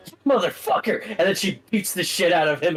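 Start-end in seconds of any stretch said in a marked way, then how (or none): 0.1-1.1 high, furious yell at Stuart. Acted. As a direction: scream it high, full of rage. GM voices Stacy attacking Stuart.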